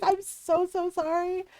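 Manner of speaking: half-laughing mock apology. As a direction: keep apologising through laughs. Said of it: "I'm like".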